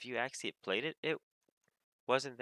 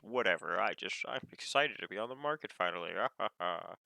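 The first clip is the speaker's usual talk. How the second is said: lightly put-on villain voice with a cackle; a hint of gloating cartoon villain, ending in a laugh; Penguin from Batman. Undercutter excited to be on the market, lightly voiced cackling villain. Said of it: "they sound like the Penguin from Batman".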